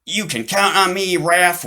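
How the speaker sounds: high, bright vow; eager promise. Acted. Boy writes to his best friend, high and eager. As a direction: promise it proudly.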